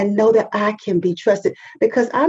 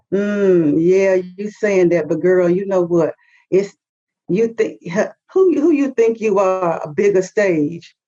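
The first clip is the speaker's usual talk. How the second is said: doubting naysayers; 2 semitones lower than usual. Retold or imitated. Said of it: "The response would have always been".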